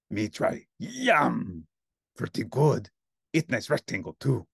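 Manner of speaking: hungry monster talking in broken me-grammar; cookie-loving monster. Acted. Hungry monster explains his baking steps, in steady monster voice.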